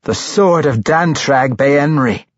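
stern correction. A narrator's reading. Matron mother setting Tosin straight about her brother's sword, correcting. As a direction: correct him sharply from on high. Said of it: "the matron mother corrected".

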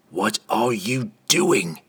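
slow, firm demand in a put-on voice. A narrator's reading. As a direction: press for an answer, slowly. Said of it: "Entreri demanded".

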